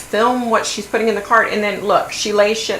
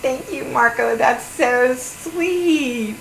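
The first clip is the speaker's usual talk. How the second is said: higher, sugary mock voice; mock sweet wife; 6 semitones higher, much slower than usual. Imitating the wife thanking Marco on camera, higher mock gush. Mimicking wife praising husband.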